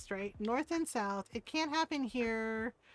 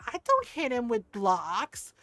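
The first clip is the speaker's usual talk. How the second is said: put-on slow, drawn-out childish denial; denying little kid; 3 semitones lower, slower than usual. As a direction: imitate a small child protesting innocence. Retold small child denying it.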